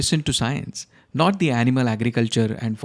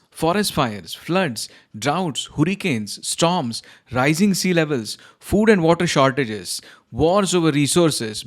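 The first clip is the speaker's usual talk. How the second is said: higher, rising panic; agitated; 3 semitones higher than usual. Acted. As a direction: spiral into frantic alarm. Client's climate panic rant.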